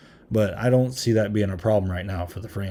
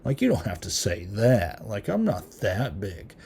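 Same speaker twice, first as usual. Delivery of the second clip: soft, bashful aw-shucks imitation; mock bashful modesty; 4 dB quieter, slower than usual. Reviewer voicing the clown's look at being called famous, mock bashful. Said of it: "Art kinda gives this look like".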